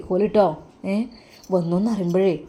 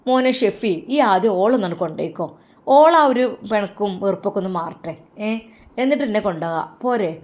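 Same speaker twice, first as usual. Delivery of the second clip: mother's voice; 2 semitones higher, 4 dB louder than usual. Acted. Mother asks son about the weather abroad, doting motherly voice. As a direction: ask fondly, like a mother fussing.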